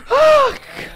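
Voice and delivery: short, very high gasping yelp; sharp high gasp of fright; startled shriek. Real, not acted. Player caught off guard by a scare, startled shriek.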